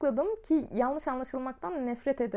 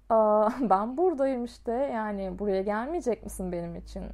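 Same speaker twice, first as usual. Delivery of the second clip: imitating his tone; 4 semitones lower than usual. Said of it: "ses tonlamasını yapmaya çalışacağım".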